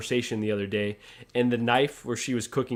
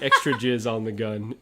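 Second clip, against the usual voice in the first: put-on Justin's accent; 3 dB louder than usual. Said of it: "in his accent".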